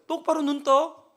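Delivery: forceful shouted lines for him to repeat; loud commands. Retold or imitated. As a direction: bellow each phrase so he must echo it. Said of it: "계속 한 시간 반 동안 싸우는 거예요".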